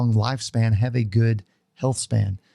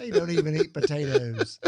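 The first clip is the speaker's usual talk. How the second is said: put-on a failed, half-hearted Irish accent; mock Irish lilt, barely there; bad Irish accent; 3 semitones higher, 3 dB quieter than usual. Co-host joking about the Irish founders, in a bad Irish accent. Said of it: "I can't even do an Irish accent".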